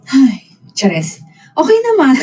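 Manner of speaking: high, bursting into laughter; laughing. Real, not acted. Asked about new teammates, laughing. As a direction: crack up mid-answer.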